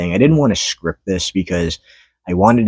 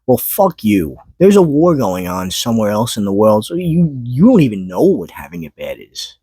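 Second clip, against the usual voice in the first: mocking quote; 4 semitones higher than usual. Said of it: "Why would you ever tell somebody".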